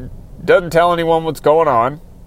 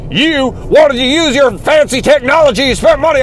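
getting upset; 7 semitones higher than usual. Real, not acted. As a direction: build into a real indignant outburst. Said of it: "I don't need to get upset".

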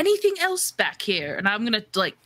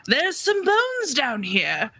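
slow, higher mock call; storyteller's mild acted shout; 4 semitones higher, slower than usual. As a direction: call up from the depths, drawn out. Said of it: "Paladin shouted up from the depths".

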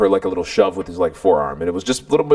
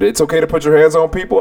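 mildly barked, higher challenge; retold barking; 4 semitones higher, 3 dB louder than usual. Man right up in the boy's face, mildly barking. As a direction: confront him with indignant force, retold. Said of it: "literally barking in his ear".

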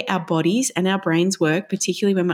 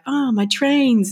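slow, higher, drawn-out delight; light child's joy at his trains; 6 semitones higher, much slower than usual. Retold or imitated.

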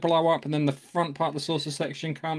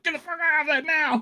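Klingon shout; 14 semitones higher than usual. Retold or imitated. Klingon commander yelling at his crew to flee, hammed-up shout. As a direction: bark the order like a panicked Klingon. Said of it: "He's like".

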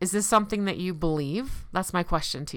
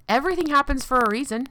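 mock-cheerful, quick and high; sarcastic; 7 semitones higher, faster than usual. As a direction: sneer at the cliché. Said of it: "said with much sarcasm".

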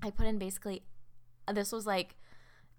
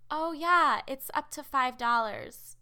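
higher, louder mock cashier, slowing down; cashier quote; 5 semitones higher, 5 dB louder, slower than usual. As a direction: spell out the rule in a pitched-up cashier voice. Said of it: "And she's like".

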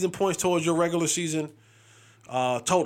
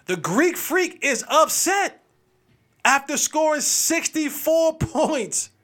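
slow, raised, high hype-man read; slow dramatic sports-show opener, pitched up; dramatic announcer; 6 semitones higher, much slower than usual. Acted. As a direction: announce it like breaking news, drawn out. Dramatic breaking-news style intro.

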